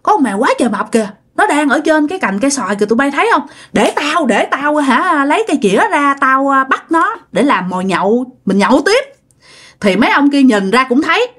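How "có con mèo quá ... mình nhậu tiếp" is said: calling drinking buddies. Retold or imitated. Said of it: "cha mới đứng dậy nói với bạn nhậu của mình".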